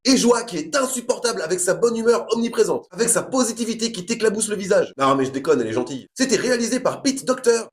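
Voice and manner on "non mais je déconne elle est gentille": much lower, half-swallowed take-back; sheepish low retraction; low mock backpedal. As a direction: drop low to pretend you didn't mean it. Backtracking aside, much lower.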